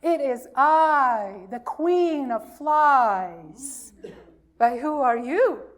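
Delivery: a proud little fly queen, drawn out and loud; queen of flies. Acted. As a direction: announce yourself like a lightly voiced tiny queen. Fly answers from inside mitten.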